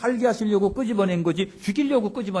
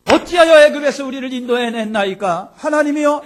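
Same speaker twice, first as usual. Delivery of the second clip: loud pleading cry; 8 semitones higher, 11 dB louder than usual. Acted. Preacher voicing Israelites' cry.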